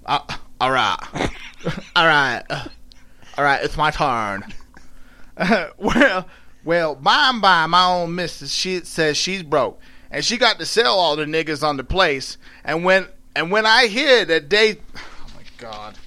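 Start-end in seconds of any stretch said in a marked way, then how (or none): 5.4-14.7 Southern dialect read-aloud; storytelling in dialect. A narrator's reading. Attempting the slave woman's story, in Southern dialect. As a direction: read it with a put-on Southern accent.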